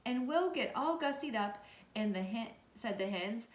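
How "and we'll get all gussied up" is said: eager peacock. Acted. Peacock eagerly agrees to plan.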